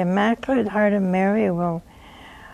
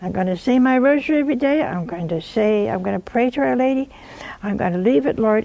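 quick prayer; 3 semitones higher, faster than usual. Shown as a demonstration. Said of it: "Just say to the Lord".

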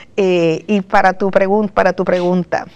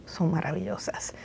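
whisper; 3 semitones lower, 6 dB quieter than usual. Real, not acted. Earnest point about fear.

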